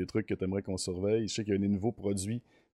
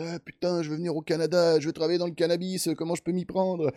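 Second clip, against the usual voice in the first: put-on higher-pitched Parisian French accent; 8 semitones higher than usual. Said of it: "c'est un accent parisien".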